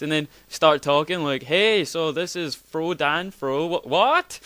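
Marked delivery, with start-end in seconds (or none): 1.4-4.4 fumbled intro. Retold or imitated. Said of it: "messing it up in stupid ways".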